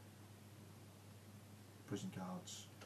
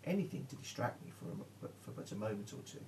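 hoarse voice; 3 semitones higher than usual. Acted. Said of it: "Through a worn, hoarse voice".

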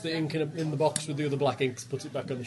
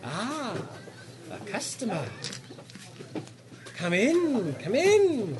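sly foreign merchant, slow and pitched up; a sly shopkeeper greeting a customer; sly mysterious shopkeeper; 3 dB quieter, slower than usual. Acted. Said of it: "He's mocking me".

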